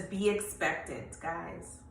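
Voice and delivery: a soft, tender charge to the listeners; gentle word from the Lord. Acted. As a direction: pass on the Lord's word quietly. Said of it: "But the Lord says".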